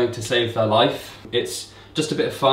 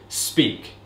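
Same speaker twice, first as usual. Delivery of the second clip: quiet command. Retold or imitated. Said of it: "I then started to say".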